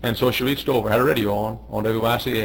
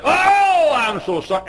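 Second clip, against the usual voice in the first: startled apology; 6 dB louder, slower than usual. Retold or imitated. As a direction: voice jumps way up in a startled oh. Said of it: "And she said".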